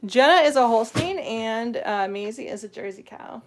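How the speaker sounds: talking out of breath, a bit winded. Real, not acted. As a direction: catch your breath between words. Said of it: "I'm out of breath, guys".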